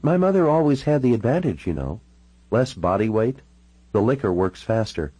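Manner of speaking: lightly voiced woman, starting high; she talks over him.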